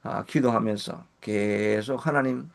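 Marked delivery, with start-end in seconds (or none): 2.1-2.5 earnest plea. Shown as a demonstration. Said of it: "하는 그런 간절함이".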